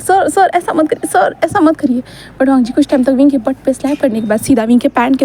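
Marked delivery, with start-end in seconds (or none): 0.0-2.0 higher, slow, strained pleading; pitched-up plea, a touch of pain; pleading cry. A narrator's reading. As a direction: beg him to stop, stretched out. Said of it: "विंग ज़ोर से चिल्लाते हैं".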